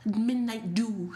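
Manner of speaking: asking through a laugh; giggly imitated question; laughing mock order. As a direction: tease the fancy request while laughing. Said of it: "it's like".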